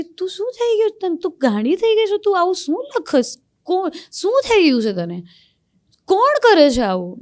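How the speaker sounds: high, loud alarmed questioning; alarmed friends. Retold or imitated. Friends phoning her in alarm, high, loud and shocked. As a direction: voice the shocked friends demanding answers. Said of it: "બધા લોકો તો મને જ phone કરીને કહેવાના છે ને કે".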